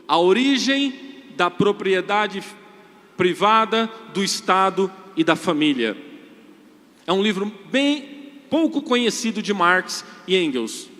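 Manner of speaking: rising preacher's force, booming; preaching loudly. Real, not acted. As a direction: hammer the point home to the congregation. Preaching builds louder. (pregação cada vez mais forte)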